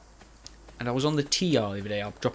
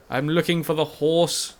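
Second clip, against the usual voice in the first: slow drawn call; 4 semitones higher, 3 dB louder, slower than usual. Pretend. Calling out for his horse.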